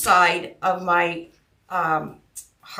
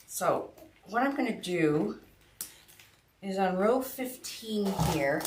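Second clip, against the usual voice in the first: mumbling; 6 dB quieter than usual. Real, not acted. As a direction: mumble it, worn out. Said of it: "if I sound like I'm mumbling".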